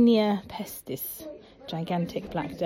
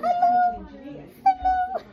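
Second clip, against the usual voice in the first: much higher, louder squeaky greeting; rat puppet hello; 4 dB louder than usual. Pretend. Mum's rat puppet calling hello to the child, much higher and louder.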